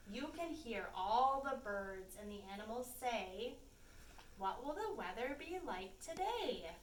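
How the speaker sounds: gentle rhyming picture-book read; story narration. A narrator's reading. Reading the rhyming book to young listeners, gentle storytime lilt. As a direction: lilt the rhyme for small children.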